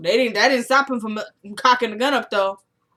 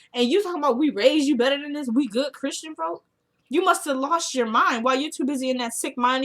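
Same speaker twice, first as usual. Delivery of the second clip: indignant scolding; 5 semitones higher than usual. Real, not acted. Keeps scolding the mother.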